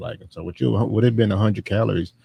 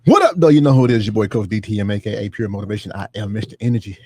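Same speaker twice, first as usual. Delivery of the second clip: rhymed hype intro; faster than usual. Pretend. Coach introducing himself to podcast listeners, hype rhymed intro. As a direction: roll through a rhymed self-introduction.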